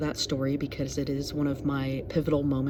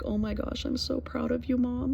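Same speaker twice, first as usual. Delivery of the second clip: higher, gushing daughter's praise, lightly voiced; proud daughter; 8 semitones higher, 4 dB quieter than usual. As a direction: beam up at mom, a light imitation. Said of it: "And she's like".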